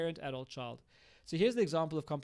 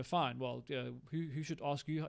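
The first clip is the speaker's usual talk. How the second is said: critical parent. Shown as a demonstration. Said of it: "go into critical parent and go".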